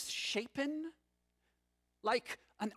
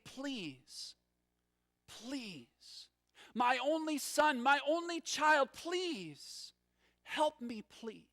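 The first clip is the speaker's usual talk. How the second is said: desperate pleading; 4 semitones higher, slower than usual. Retold or imitated. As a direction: beg for your only son, voice rising then dropping away. Father begging for his son.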